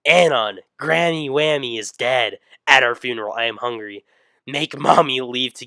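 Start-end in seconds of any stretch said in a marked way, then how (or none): 0.1-2.4 mom calling out. Acted. Mom calls out to son.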